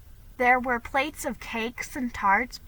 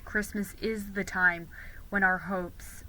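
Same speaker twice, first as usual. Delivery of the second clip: lower, softer Ben, sincere; gentle boy; 3 semitones lower, 5 dB quieter than usual. Acted. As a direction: speak tenderly as the shy boy.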